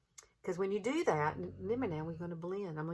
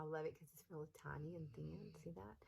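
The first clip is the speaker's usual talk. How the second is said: whispered aside; 13 dB quieter than usual. Real, not acted. Showing the small brush to camera.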